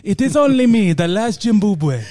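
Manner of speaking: put-on slowing, solemn comic African accent. Last of his family declaring himself, African accent. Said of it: "doing that accent".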